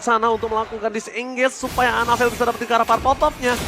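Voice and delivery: excited live play-by-play; esports caster. Real, not acted. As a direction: call the play as it unfolds.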